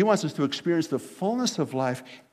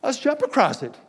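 put-on higher-pitched little boy with a simple plan; 5 semitones higher than usual. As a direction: play a small kid, voice lifting as he goes. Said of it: "the little boy goes".

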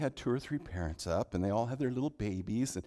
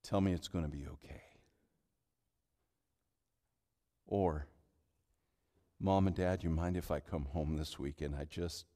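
soft, low, fragile longing; homesick plea; 6 semitones lower, 5 dB quieter than usual. Retold or imitated. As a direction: ask for Dad like a homesick kid. Retold lonely call home.

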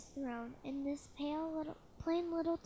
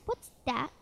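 snorted question; 5 dB louder than usual. Acted. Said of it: "snorted Yertle".

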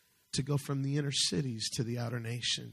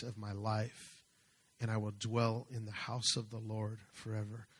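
scripture reading. Acted. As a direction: read the psalm aloud, pausing between phrases. Reads the psalm aloud.

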